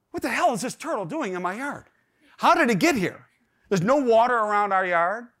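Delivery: mildly incredulous, working out a mystery; baffled disbelief. Acted. Dad puzzling over a turtle in his yard, baffled.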